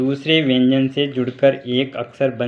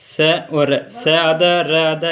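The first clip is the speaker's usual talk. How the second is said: slow spelling out; slower than usual. Shown as a demonstration. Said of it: "इसको श्र बोलेंगे".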